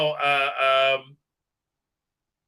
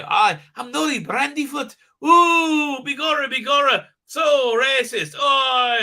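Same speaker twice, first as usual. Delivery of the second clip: much higher, shouty squeaky hobbit; 8 semitones higher, 5 dB louder than usual. Retold or imitated. Mocking the show's hobbit girl, a high squealing hobbit voice.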